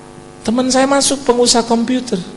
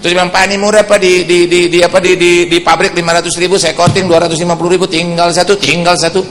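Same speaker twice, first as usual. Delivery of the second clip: energetic preaching; 6 semitones higher, 8 dB louder than usual. Acted. Preaching climax continues.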